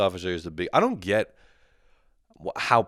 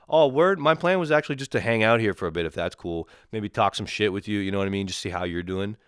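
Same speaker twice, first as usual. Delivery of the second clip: sarcastic friendliness, easing down. Acted. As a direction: feign a chummy wish to hang out. Sarcastic imagined reply to agent.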